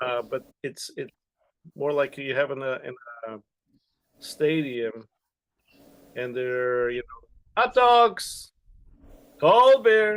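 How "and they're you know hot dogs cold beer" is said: very loud, projected, drawn-out vendor call. Demonstrating the salesman's voice of stadium vendors, a projected vendor call. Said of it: "they're just projecting their voice".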